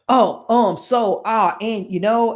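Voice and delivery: demonstrating stumbles with separated ums and ahs; halting filler words. Shown as a demonstration. Coach showing how she fumbles on live video, halting. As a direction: act out searching for words, bit by bit. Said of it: "I said um and ah".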